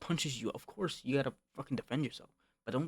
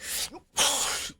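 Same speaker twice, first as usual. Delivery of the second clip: mock huffing; 13 semitones higher, 4 dB louder than usual. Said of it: "Don't be like".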